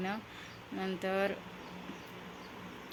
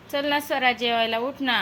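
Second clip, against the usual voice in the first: higher, louder plea to come eat; mother calling her sulking daughter to dinner, raised pleading voice; coaxing call; 4 semitones higher, 6 dB louder than usual. Real, not acted.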